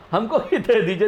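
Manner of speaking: repeating the request through a laugh; laughing imitation. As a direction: chuckle while mimicking the sneaky ask. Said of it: "ऐसा बोलते ना हम". (हँसते हुए नकल उतारना)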